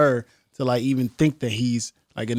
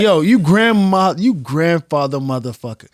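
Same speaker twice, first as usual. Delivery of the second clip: hammed-up trash talk, slightly raised; mock insult; 3 semitones higher than usual. Acting out a drunken insult.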